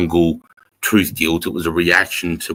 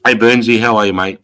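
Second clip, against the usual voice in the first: louder, friendly hail; calling a greeting; 2 semitones higher, 6 dB louder than usual. Real, not acted. Host greeting Burnsy popping in, calling out. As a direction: call out to a mate. Calls out to someone passing by.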